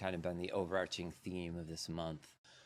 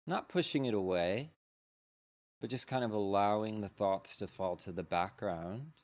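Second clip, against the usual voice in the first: unhurried meditation guide with long pauses; measured, spacious mindfulness-teacher delivery; guided meditation. Real, not acted. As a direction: lead them gently into settling, leaving space between phrases.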